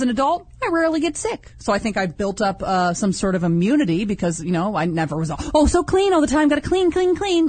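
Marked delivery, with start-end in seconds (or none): 5.5-7.5 high, fussy clean freak voice; mock a fussy neat child. Mocking a clean-freak kid.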